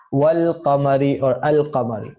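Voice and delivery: wal qamari, al qamari with a clear l; lam pronounced. Shown as a demonstration. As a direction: sound the lam before qamari. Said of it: "where lam is pronounced".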